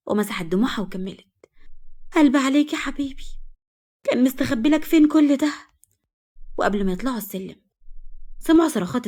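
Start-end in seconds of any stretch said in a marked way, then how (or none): 2.1-5.5 feigned sorrow. A narrator's reading. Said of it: "وهي بتمثل البكا".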